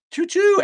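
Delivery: high squealed choo choo; train whistle imitation. Real, not acted. Streamer mocking himself as a runaway train, tooting high. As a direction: toot it like a steam train. Announcing himself acid tongue atheist.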